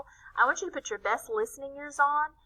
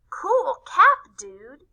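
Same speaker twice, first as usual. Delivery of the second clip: calling out; 4 semitones higher, 8 dB louder, much slower than usual. A narrator's reading. Classmate greeting Corky.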